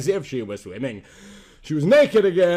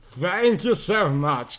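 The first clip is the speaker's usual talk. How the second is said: grateful tears; slower than usual. Acted. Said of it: "tears of joy and happiness".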